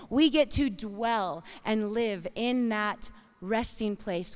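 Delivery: usual speaking voice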